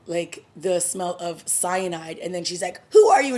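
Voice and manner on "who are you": loud, high mock challenge; retold sharp demand. Thea pulling a knife on Chase, retold loud demand. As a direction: burst out with an acted demand.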